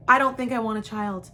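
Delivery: fast, just get it out; rushed plain confession; quick blurted confession. Shown as a demonstration. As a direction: blurt it in one breath, relieved. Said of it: "it's nice to just say that".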